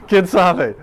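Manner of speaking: asks again through a laugh; chuckling at the silent room. Real, not acted. Teacher re-asking a silent class, laughing.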